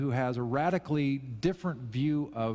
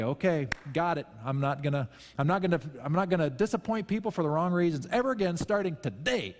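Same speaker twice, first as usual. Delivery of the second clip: mock resolution; 4 semitones higher than usual.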